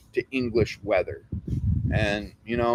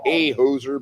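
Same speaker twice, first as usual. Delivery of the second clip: lightly put-on Canadian accent; 3 semitones lower than usual. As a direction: say it with a hint of Canadian. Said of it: "I always wanna do a Canadian accent".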